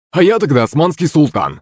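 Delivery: high-pitched mocking comeback; smirking retort. A narrator's reading. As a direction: jeer back with a smirk. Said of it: "ухмыльнулся Захарыч".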